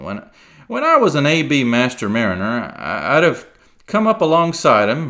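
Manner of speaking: loud, then fading sea cook; rueful pirate. Acted. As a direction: lament like an old pirate. Silver role.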